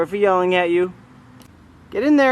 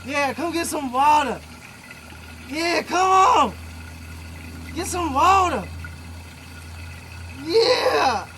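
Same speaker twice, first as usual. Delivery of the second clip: coaxing the bird; 3 semitones higher than usual. Real, not acted.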